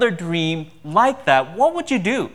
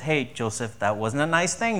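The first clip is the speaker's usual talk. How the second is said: mild scolding; 4 semitones lower, 4 dB quieter than usual. Retold or imitated. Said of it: "it's not just".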